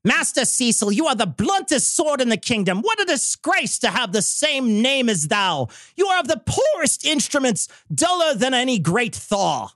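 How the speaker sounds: lightly voiced olde English roast, a bit high; a hint of a Shakespearean herald; old-timey voice. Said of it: "your worst old-timey voice".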